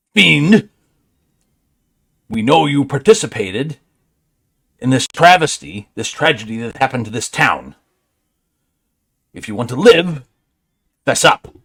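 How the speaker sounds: bristling, angry, rage-filled growling snarl. Intimidating a fiend after rolling intimidation: growling with rage. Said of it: "bristling with rage, growl a little, and go".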